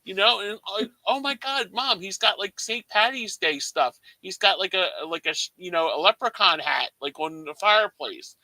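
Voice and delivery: high, eager imitation of mom; mom's excited voice. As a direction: squeal it like an amazed mother. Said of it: "my mom's going".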